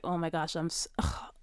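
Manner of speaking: breathy whimper near tears; half-cry it out, defeated; a retold teary whimper; whimpering despair. Retold despair, whispered groan.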